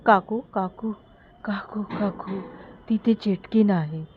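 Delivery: panicked repeated calls; frightened girl. Acted. Terrified girl warns the aunt about the witch, panicked. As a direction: gasp out the warning in fear. Girl fleeing after screaming.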